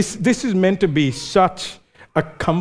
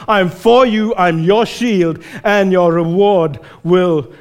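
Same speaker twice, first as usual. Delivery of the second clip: calm, sincere vow; God's tender promise. Retold or imitated. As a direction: reassure a frightened child. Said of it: "It is always like this".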